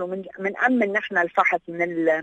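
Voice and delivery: ordinary talk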